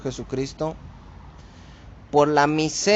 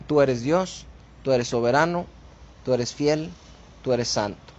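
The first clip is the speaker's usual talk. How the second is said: reverent prayer. Shown as a demonstration. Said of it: "La actitud correcta siempre ante Dios".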